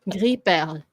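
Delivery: Gris perle with the S silent and perle ending lightly; French Gris perle, no weight on the last E; unstressed final E. Shown as a demonstration. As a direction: say Gris perle as "gree pairl". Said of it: "don't put the emphasis on the E".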